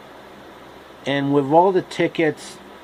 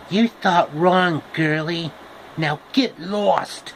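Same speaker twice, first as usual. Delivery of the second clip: slow menacing tree; 3 semitones higher, slower than usual. Acted. Apple tree shoos Dorothy.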